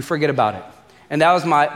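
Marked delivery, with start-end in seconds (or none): 0.0-0.6 lightly put-on Italian mobster accent. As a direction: toss it off like a hammed Italian-American mobster. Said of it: "my best Italian mobster accent".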